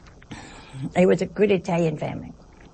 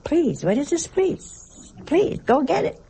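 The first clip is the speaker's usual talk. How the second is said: high, incredulous mock scolding; Italian family retort; 8 semitones higher than usual. Italian relative answering a polite sister, mock indignation. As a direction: imitate a relative scoffing at politeness, pitched way up. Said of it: "That's Italian".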